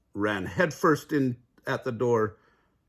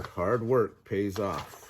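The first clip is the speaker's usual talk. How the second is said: slow moral; slower than usual. Acted. Moral of the mother.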